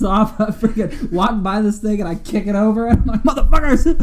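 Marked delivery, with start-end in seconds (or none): 3.2-4.0 angry outburst. Retold or imitated. Storming off after kicking display.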